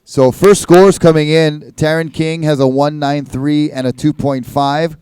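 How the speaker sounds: relaxed score read over the PA; easygoing contest announcer voice; laid-back surfer announcer. Acted. Reads out the heat scores.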